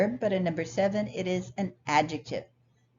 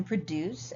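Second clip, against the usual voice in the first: produce stressed on its second syllable; 5 dB quieter than usual. Shown as a demonstration. Teacher reading the community garden sentence, produce stressed on second syllable. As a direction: say produce as the verb, pro-DUCE. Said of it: "is stressed on what we call the second syllable".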